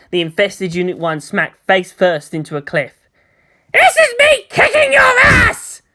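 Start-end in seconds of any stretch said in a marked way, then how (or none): 3.7-5.8 put-on much higher and louder brash teen girl; proud, defiant outburst, building to a shout; fiery girl pilot. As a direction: Asuka brushing off fancy names, rising to a yell. Asuka voiced as character.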